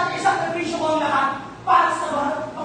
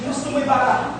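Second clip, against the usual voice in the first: lowered, threatening voice; menacing threat; 4 semitones lower, 3 dB quieter than usual. Acted. Friar warning Ibarra to remember him, menacing. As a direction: drop your pitch and warn your rival.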